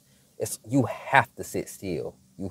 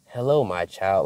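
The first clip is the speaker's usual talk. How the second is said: lightly voiced devil imitating God; a hint of mock-holy greeting. Devil trying to trick her in prayer, lightly mocking God. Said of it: "voice of the devil sounds like a mockery of God".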